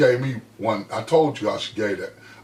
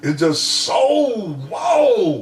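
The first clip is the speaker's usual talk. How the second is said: real tears, voice breaking high and louder; choked up; 7 semitones higher, 3 dB louder, much slower than usual. Real, not acted. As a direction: overcome by the memory, crying out the words. Overcome remembering his mother.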